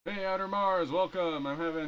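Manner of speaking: high, bright welcome; high cheerful greeting. Real, not acted. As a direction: greet the viewer high and friendly. Greeting a viewer.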